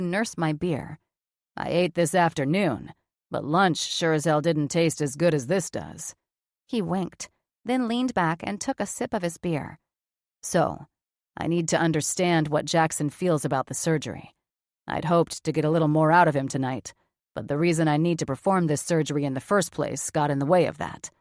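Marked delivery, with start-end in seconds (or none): 1.6-6.1 gruff doctor, lower register; blunt surgeon, low and flat; lower male voice. Acted. Cameron's voice, lower. 10.4-21.1 gruff doctor, lower register; blunt surgeon, low and flat; lower male voice. Acted. Cameron's voice, lower.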